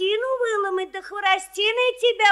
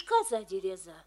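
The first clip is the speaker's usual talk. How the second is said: sulky goat voice; 10 semitones lower, 7 dB quieter than usual. Acted. Goat answers sulkily.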